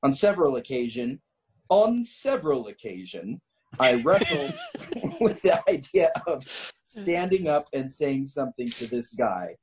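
measured, deliberate story reading; story narration. A narrator's reading. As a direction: read the tale out with emphatic phrasing. Reads a written story aloud.

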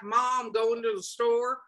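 slow, lightly drawled Southern orc talk; a hint of a Southern accent, slowed down. Imitating an orc from a submission in a mild Southern accent. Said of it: "I did a Southern accent for that".

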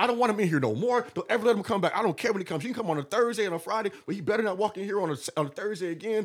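high, loud mock-furious orders; disrespected rant. Telling the manager to ban the rival, hammed-up anger. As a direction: lay down the law, half laughing. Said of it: "I felt disrespected".

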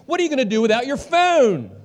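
high-pitched comic alarm; mock panic. Preacher fretting over his dropped phone, mock panic. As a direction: wail it in exaggerated dismay, pitch way up.

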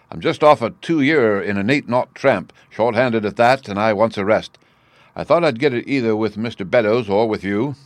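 lightly voiced old seaman; a hint of a sly sailor airing a grievance; lightly played seaman, familiar and complaining; cringing, crafty sailor.

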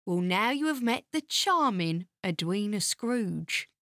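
drily sarcastic introduction. Acted. Narrator introduces Scrooge to the listeners, sarcastic. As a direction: present someone dreadful with mock courtesy. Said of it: "You were being sarcastic".

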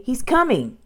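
high-pitched, alarmed warning; shouted warning. A narrator's reading. Girl warns her brother of the dinosaur, alarmed high call. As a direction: warn with rising urgency. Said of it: "shouted Annie".

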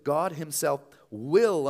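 "will" drawn out slowly and weighted; stress on will. Shown as a demonstration. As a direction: lean hard on "will", slow and firm. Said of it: "underline will".

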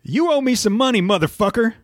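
high, tough movie-gangster voice; Samuel L. Jackson impression. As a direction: growl it like a badass gangster. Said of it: "I can't do his voice great".

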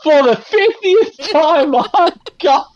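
high, drawn-out fed-up complaint; slow, high-pitched hammed-up exasperation; mock exasperation. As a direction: act out a fed-up companion, stretching the words. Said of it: "they're talking to each other going".

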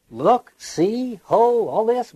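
short, lifted cries of wonder, lightly acted; mimicked exclamation. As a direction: call out as if pointing at a sight. Mimics audience exclaiming at stage.

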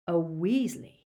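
slow, lightly rasping villain; a touch of menacing rasp. A narrator's reading. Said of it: "rasped Greyback".

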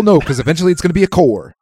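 lightly voiced deadpan Mitch Hedberg punchline; Mitch Hedberg impression. Quoting Mitch Hedberg to his friends, lightly mimicked deadpan. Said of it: "that was Mitch Hedberg".

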